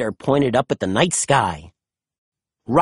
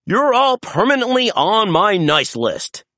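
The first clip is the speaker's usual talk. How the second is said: exclaiming; 5 semitones higher than usual. A narrator's reading. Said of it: "Santa exclaimed".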